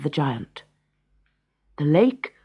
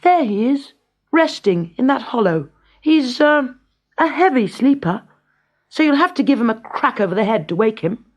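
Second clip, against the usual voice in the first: put-on higher, louder, eager boy voice; a clever boy sending the giant to the bear; high, mischievous young hero; cunning boy; 6 semitones higher, 4 dB louder than usual. A narrator's reading. Boy Avram's voice.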